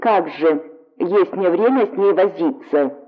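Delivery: plain reading voice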